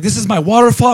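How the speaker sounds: high, sing-song mock of an angry local; mock ranting woman. Teller mocks the woman guarding her waterfall, high sing-song. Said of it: "she's like".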